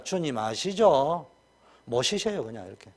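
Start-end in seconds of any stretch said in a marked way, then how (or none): 0.0-1.3 slow, trusting prayer voice. Pretend. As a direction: drag out the plea to the Lord. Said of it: "매일 정식기도 때마다".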